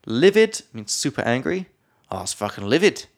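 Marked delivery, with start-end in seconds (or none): 2.1-3.1 Australian accent. Shown as a demonstration. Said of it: "I'm just going for it now".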